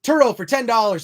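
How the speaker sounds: high, stiff synthesizer speech; monotone droid voice; robot voice. Pretend. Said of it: "I am doing robot voice".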